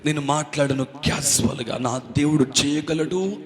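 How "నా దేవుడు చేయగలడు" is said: slow, measured confidence; steady, unhurried conviction; full of faith. Acted. Preacher recalling his faith to the congregation, confident. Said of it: "అన్న విశ్వాసంతో".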